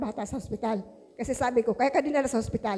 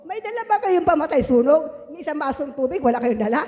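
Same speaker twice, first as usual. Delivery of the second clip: retold shouting; 4 semitones higher, 4 dB louder than usual. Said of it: "nasisigaw ako".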